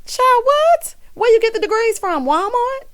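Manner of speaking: very high-pitched incredulous squeal; hammed-up, high incredulity; mock disbelief. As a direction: squeal it in comic outrage. Mocking Wendy's degrees in disbelief.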